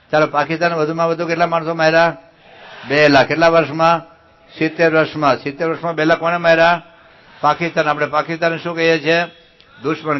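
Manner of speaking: high, loud quiz calls; loud rallying. Real, not acted. Speaker drilling children in call and response, loud and rallying. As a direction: fire the questions to a crowd.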